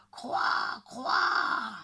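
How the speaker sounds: drawn, high raucous caws; crow caw. Acted. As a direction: caw back mockingly like a crow. Narrator imitates crow. (croassements aigus de corbeau)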